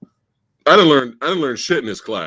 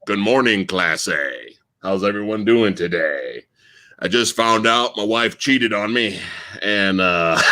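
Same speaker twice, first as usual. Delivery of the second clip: teacher imitation; 6 semitones lower than usual. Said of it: "he goes".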